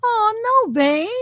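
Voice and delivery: mock-happy wife, high and bright. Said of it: "all happy".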